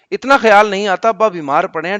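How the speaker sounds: loud mock scolding of the child; a mother's loud rebuke; hammed-up angry mother.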